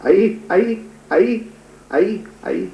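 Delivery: acted child's call, voice lifting; calling for mother. Narrator voices orphaned children calling their mother, calling out. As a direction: call out "mother" in short, rising cries. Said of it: "Muktai हाक मारते".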